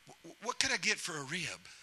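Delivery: Adam haggling with God, half laughing; laughing bargain. Acted. Adam chuckling as he bargains with God. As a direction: sly question through a chuckle.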